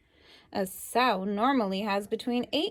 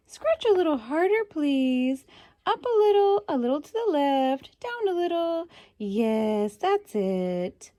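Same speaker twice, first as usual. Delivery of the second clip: high, louder begging pig voice; pleading pig; 5 semitones higher, 4 dB louder than usual. Pretend. Pig asking to be scratched, high and eager. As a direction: beg for the right spot to be scratched. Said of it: "What do you think a pig would say".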